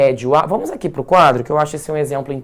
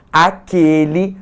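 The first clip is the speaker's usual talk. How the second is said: "aquele" slow and a little louder, rising; stressed demo word; 4 dB louder, slower than usual. Shown as a demonstration. Teacher contrasting masculine form, slow. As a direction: draw out "aquele". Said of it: "e, ó".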